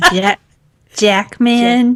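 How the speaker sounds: false start, then a tentative Australian accent; attempted Australian accent. Shown as a demonstration. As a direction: try "Jackman" with an Australian accent. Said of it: "Say it in your Australian accent now".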